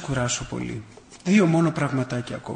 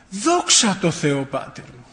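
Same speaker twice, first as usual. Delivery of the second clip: smiling gratitude; 2 semitones higher, slower than usual. Retold or imitated. Suffering old man thanks God before the priest, smiling and grateful. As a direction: draw out the praise, then drop to near nothing. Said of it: "τι χαμόγελο ήταν αυτό".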